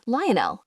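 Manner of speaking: Lionel said lee-oh-NEL, end stressed; careful pronunciation. A narrator's reading. Counselor greeting the boy by name, Lionel said lee-oh-NEL. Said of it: "making sure I pronounced it properly".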